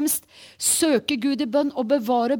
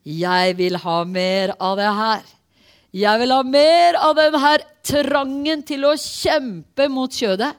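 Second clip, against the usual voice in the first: slow, rising into louder passion; fervent longing; 5 dB louder, slower than usual. Real, not acted. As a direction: pour out real longing, slowly. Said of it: "Åh, jeg kjenner det". (inderlig lengsel, sakte og stigende)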